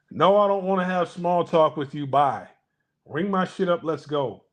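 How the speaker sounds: acted brush-off. Customer refusing the cashier's small talk, brusque brush-off.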